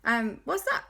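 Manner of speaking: put-on children surprised by visitors, eager; excited. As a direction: gush at the visitors. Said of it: "And they went".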